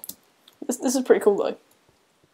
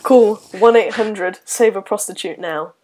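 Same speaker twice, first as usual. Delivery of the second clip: slow, louder, mock advert read; charity ad voice; 5 dB louder, slower than usual. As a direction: read it like a late-night charity ad.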